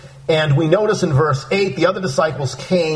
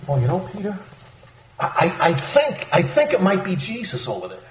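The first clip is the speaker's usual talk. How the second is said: uncertain; 3 semitones higher, 3 dB quieter than usual. Retold or imitated. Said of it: "no uncertainty in John's voice".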